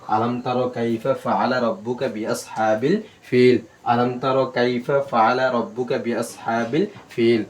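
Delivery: slow, measured recitation with long vowels; Quran recitation. Shown as a demonstration. Teacher models the verse for students, slow recitation. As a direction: recite slowly, drawing out the long syllables.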